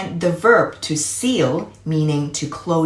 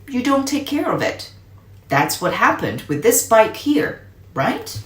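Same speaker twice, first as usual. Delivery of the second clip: higher, patient uncle teaching a lesson; Uncle Jake lecturing; 4 semitones higher than usual. Acted. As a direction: explain to the kid like a firm but kind uncle.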